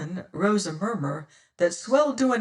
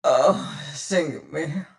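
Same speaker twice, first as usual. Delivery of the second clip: groaned; 4 dB louder, much slower than usual. Acted. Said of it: "groaned Mings".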